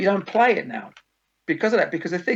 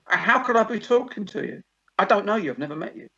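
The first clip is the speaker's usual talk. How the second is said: higher-pitched mock bafflement; incredulous rebuff; 5 semitones higher than usual. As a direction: push back at a deluded stranger. Acts a singer rebuffing an obsessed fan.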